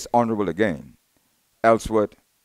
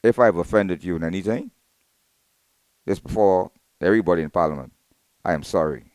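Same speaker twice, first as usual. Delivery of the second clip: humble, retold apology in a lowered voice; earnest retold apology; 3 semitones lower than usual. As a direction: quote a humble apology, easing down at the end. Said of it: "very humble, you know".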